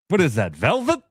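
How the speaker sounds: imitating a movie quote, high questioning lift; Coming to America line. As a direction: quote the barber's astonished question. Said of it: "That's a line from when".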